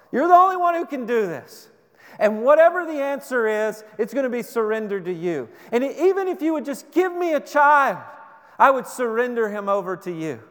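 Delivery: the desperate woman vowing her son to God, crying out; Hannah pleading at full pitch. Acted. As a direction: throw everything into the begging prayer. Hannah's prayer climax.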